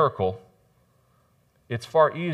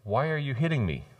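indignant donkey; 3 semitones higher than usual. Acted. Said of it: "being the intellectual that the donkey was".

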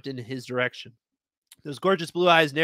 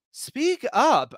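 demanding shout; 10 semitones higher, 3 dB louder than usual. Acted. Pinned man demands, high.

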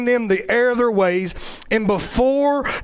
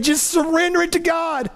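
tearful plea; 6 semitones higher than usual. Retold or imitated. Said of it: "I'm saying".

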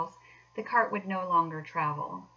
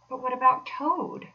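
higher, louder worried query; anxious question; 6 semitones higher, 5 dB louder than usual. A narrator's reading. Mole worried about leaving Toad, anxious. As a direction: ask it with concern for a friend. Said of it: "asked the Mole anxiously".

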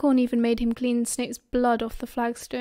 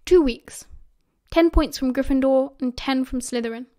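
lightly voiced teacher handing out punishment; a hint of a stern schoolmaster; firm, lightly acted professor; 4 dB louder than usual.

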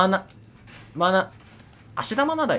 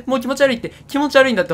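disgusted; 7 semitones higher, 4 dB louder, faster than usual. Real, not acted. Disgusted by the slug.

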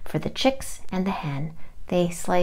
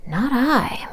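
cat voice, a meow in it; 5 semitones higher than usual. Acted. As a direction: answer like a cat mewing. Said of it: "meowed the cat".

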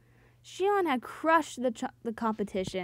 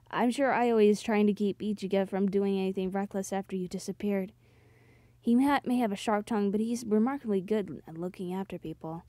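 lower-pitched, even character voice; lightly voiced Soji, reassuring; 6 semitones lower than usual. Soji reassuring the heroine about friends, calm low voice.

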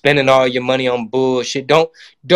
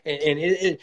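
much higher, fumbling mock Biden voice; mock Joe Biden; 8 semitones higher than usual. Comic parodying Joe Biden rambling about China. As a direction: stammer out praise like a muddled old politician. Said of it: "And Joe's like".

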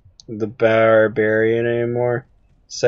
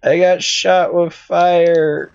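mock pained complaint; 3 semitones higher, slower than usual. Complains about being hit in game.

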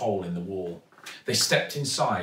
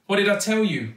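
put-on high, loud, told-you-so girl voice; young girl proven right; triumphant girl; 10 semitones higher, 5 dB louder, faster than usual. A narrator's reading. Zoe triumphant.

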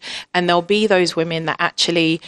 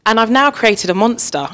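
higher pitch, laughing through it; 5 semitones higher, 4 dB louder than usual. Real, not acted. Mother joking she created a monster, laughing. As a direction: chuckle at your own joke.

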